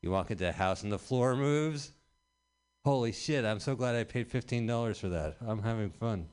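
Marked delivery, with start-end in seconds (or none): 2.8-6.3 sarcastic thrill. Pretend. Mocking fun house thrill.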